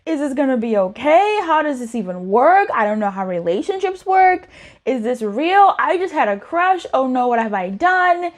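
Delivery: mock-worried questions jumping upward at the ends; hammed-up mild panic; anxious overthinking. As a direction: play a spiral of worried questions. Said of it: "you're conflicted, you're thinking about".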